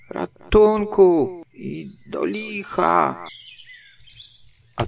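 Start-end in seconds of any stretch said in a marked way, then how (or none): 0.1-3.3 high, slow, drawn-out cry for help; calling out. A narrator's reading. Pooh jammed in the burrow, calling out for rescue. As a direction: stretch the plea out in a high voice. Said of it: "wołał".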